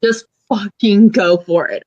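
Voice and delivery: deadpan dare from the wife; egging on. Retold or imitated. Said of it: "my brother's wife's like".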